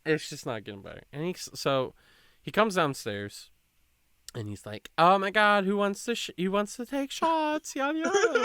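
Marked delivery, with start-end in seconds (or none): 5.0-8.4 much higher, excited party voice; hyped party guy. Retold or imitated. Retelling the drunk guy at the party, high hyped voice. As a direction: ham up the drunk guy's eager shout.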